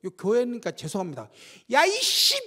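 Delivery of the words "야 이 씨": high, loud retold swear; mock angry curse. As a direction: snap it out like a startled curse. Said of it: "욕했었어요". (높고 크게 흉내 낸 욕설)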